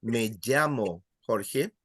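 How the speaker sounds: "llamo" as "yamo", a different regional Spanish. Shown as a demonstration. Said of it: "In other areas, they will say".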